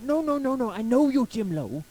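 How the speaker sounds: imitated emphatic stranger; insistent correction. Acted insistent reply of the stranger.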